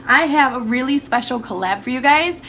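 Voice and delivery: hoarse, congested sick voice; talking through a bad cold. Real, not acted. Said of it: "I'm so sorry about my voice".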